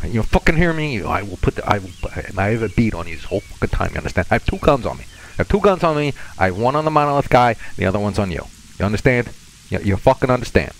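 mock-Russian threats, repeatedly demanding agreement; bully a captive in a put-on Russian accent; thick fake Russian accent. Threatening his hostage with two guns, fake Russian accent. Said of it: "terrible fake Russian accent a little thick".

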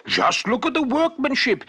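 put-on old shoemaker showing his wife the finished shoes in wonder; exclaiming. A narrator's reading. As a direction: marvel at the shoes, thrilled. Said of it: "he exclaimed".

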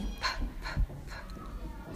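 whispered puff P, P, P; breathy unvoiced P, P, P; sounding out the letter. Shown as a demonstration. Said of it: "The last letter is P".

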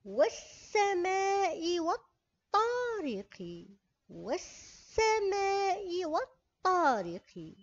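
والسماء with doubled seen, slow; doubled sun letter. Shown as a demonstration. Teacher reciting the verse for pupils, slow. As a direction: lean on the doubled س of والسماء, slowly. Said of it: "كيف نقرأ؟".

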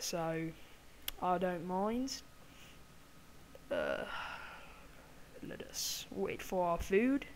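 hammed-up fake British accent; amateur mock-British accent; put-on British accent. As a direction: talk in a badly faked British accent.

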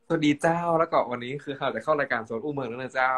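host's intro in Northern Thai dialect. Shown as a demonstration. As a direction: announce it in Northern Thai kham mueang. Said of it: "อู้เมืองกันเลยครับ".

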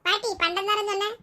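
put-on high-pitched little kid; child's voice. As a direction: ask Grandma in a high kid's voice. Child figure asks grandmother. (உயர்ந்த குழந்தைக் குரல்)

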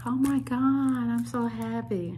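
whispered-then-bright excitement; excited gasp. Retold or imitated. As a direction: gush with delight. Excited retelling of own reaction.

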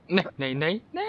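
half-sobbed shout of no; crying shout. Real, not acted. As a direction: cry out as you slip. Falling again. (रोते हुए चीखना)

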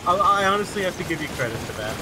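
talking through laughter; amused, still giggling; laughing. Real, not acted.

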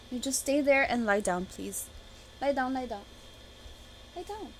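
calm the animal down quietly; soothing pet. Real, not acted. Settles her pet off camera.

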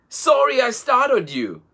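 put-on high, laughing apology from a baby hippo; high giggly hippo, sorry but amused; giggling. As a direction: giggle through it, playful. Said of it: "giggled Himondo".

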